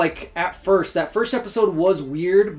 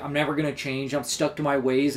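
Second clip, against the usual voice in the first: lower, softer mock-stubborn voice; gruff; 4 semitones lower, 5 dB quieter than usual. Fan voicing old Nick Fury refusing to change, lightly gruff. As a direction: lightly imitate a gruff, set-in-his-ways man. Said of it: "like, this gruff".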